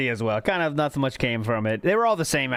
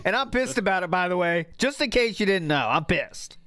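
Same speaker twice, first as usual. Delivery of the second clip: hammed-up stern parent quoting the rant; a hint of an extreme parent, mocking; mock angry parent; 3 semitones higher than usual. Mocking the streamer to co-hosts, lightly hammed-up parent. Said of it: "extreme parent vibes".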